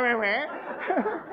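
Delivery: breaks into high laughter mid-word; laughing. Real, not acted. Coach to audience, laughing at the whining. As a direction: laugh through the mock whine.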